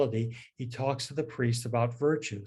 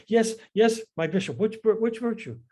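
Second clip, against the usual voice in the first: much higher, flustered priest's voice; worked up; 10 semitones higher, 4 dB louder than usual. Retold or imitated. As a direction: play the priest getting all worked up. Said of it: "he's getting all worked up".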